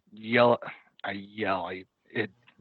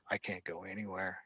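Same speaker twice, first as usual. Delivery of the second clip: whisper; 13 dB quieter than usual. Retold or imitated. Tied up, telling friends to flee.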